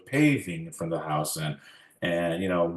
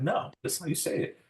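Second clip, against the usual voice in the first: put-on high-pitched childish insistence, much higher; insistent; 10 semitones higher, 5 dB quieter than usual. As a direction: insist like the bossy oldest child. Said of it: "of course, I'm the oldest".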